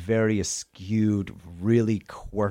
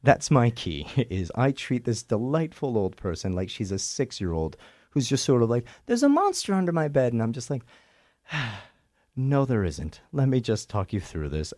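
put-on Scottish accent, pitched higher throughout; 4 semitones higher than usual. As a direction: slip into a Scottish constable's accent and stay in it. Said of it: "That was a great job with the accent".

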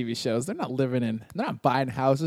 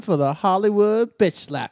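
announcer voice; 6 semitones higher, 6 dB louder, slower than usual. Acted. Announcing podcast segment.

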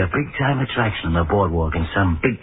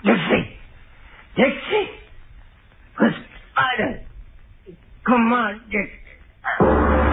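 high, crying calls for help; terrified calling; much slower than usual. Acted. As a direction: scream for the dog, crying. Calling the dog in terror.

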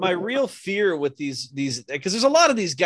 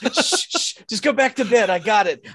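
mock hushing; 3 dB louder than usual. Man shushing his chloroformed partner, mock soothing. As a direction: hush someone with mock reassurance.

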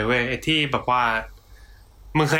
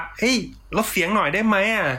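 neighbour's complaint; 6 semitones higher than usual. Acted. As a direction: play a put-out neighbour asking for less noise. Acting a neighbour complaining about noise.

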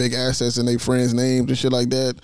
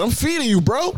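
A rapper's quote; 7 semitones higher than usual. Retold or imitated. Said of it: "like nigga Meek said".

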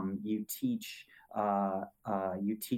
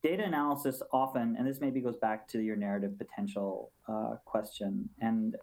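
numb from the dentist. Real, not acted. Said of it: "half of my face is numb".

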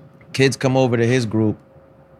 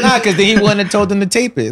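laughing while talking; 8 semitones higher, 4 dB louder than usual. Real, not acted.

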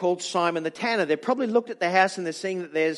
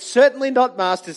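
loud, higher burst of protest; indignant refusal; 5 semitones higher, 8 dB louder than usual. Acted. Peter answering the voice in scripture, loud indignant no. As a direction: refuse it, shocked at the very idea. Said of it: "said Peter".

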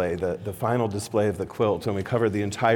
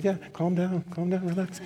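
retold soothing; 8 semitones higher, 5 dB quieter than usual. Retold soothing of nervous star.

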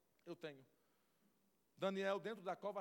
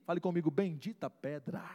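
louder preaching call; loud refrain; 3 semitones lower, 6 dB louder than usual. Acted. Preacher to congregation, loud refrain. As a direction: proclaim it to the room.

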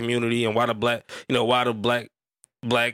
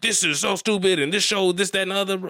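higher-pitched imitation of an outraged complainer; mock indignant rant; 7 semitones higher than usual. Imitating an acquaintance going in on his post, mock indignant. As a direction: imitate someone going off on you, pitched high. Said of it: "this nigga went in on me".

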